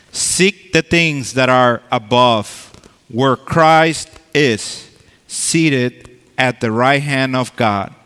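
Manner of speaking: emphatic, proclaiming Bible reading; scripture reading. Acted. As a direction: read the verses out like preaching. Reads scripture from Colossians.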